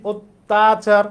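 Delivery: "অত্যাচার" as "ot-tachar", halting after ot; pause on t. Shown as a demonstration. Teacher demonstrating the break, ot-tachar halted on t. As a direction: stop on the t of "অত্যাচার", then stress tachar. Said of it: "ত এর ওখানে থামতেছি".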